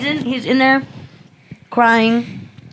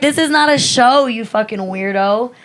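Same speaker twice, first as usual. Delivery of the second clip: pitched-up indignant scolding; retold telling-off. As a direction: tell him off, voice raised in pitch.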